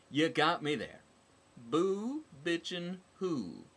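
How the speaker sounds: loud sarcastic quip; mocking comeback. A narrator's reading. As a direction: throw the joke back at her.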